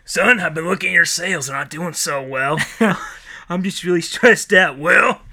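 hammy sitcom dialogue between boss and son; mock eighties sitcom acting; bad eighties sitcom. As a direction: play both parts like a cheesy sitcom scene. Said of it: "bad eighties sitcom".

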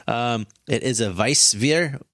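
"Weissbier" said slowly with a German v sound, "vice-veer"; slow careful "Weissbier" in a German way; German pronunciation. Real, not acted. Host naming the beer style, trying the German sound. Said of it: "I don't know how to say that".

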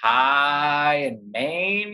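slow, clipped Maine accent. Shown as a demonstration. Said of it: "go, like".

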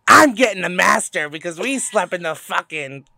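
loud, drawn-out mock griping; mock complaint. Friend mimicking who claims the master bedroom, mock complaint. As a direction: imitate an entitled grumble, hitting it hard.

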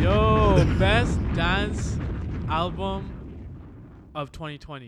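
loud, high shout-out; loud, high excited shout-out; hyped announcement. Real, not acted. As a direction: hype it like an announcer. Hype announcing Grammy.

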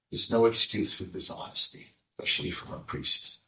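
hushed, severe whisper; stern whisper. Acted. Rav Noach refusing forgiveness in a stern whisper. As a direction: breathe the verdict coldly.

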